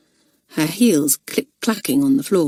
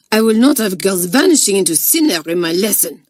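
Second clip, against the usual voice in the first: cried; 4 dB louder than usual. Acted. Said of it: "cried Mademoiselle Rouget".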